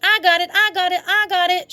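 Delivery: high, triumphant squeal; gleeful screech. A narrator's reading. May snatching the egg, high triumphant squeal. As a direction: grab the prize and gloat. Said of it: "she screeched".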